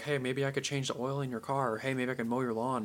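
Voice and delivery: soft, tentative offer; not very confident. Acted. Offering odd jobs to a homeowner, unsure and soft. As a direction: suggest it half-heartedly, voice held back. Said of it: "doesn't seem very confident".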